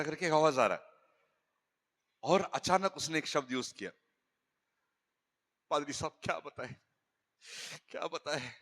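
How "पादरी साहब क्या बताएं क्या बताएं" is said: softer, leaning in to confide about the wife; a husband complaining under his breath; hushed complaint. Retold or imitated. Host complains quietly of wife. (धीमी आवाज़ में शिकायत)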